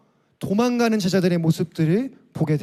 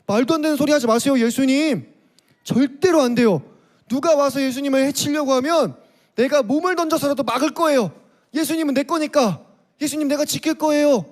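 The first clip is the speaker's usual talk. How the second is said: protesting Peter; 4 semitones higher than usual. Acted. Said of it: "베드로는 그렇게 말했어요".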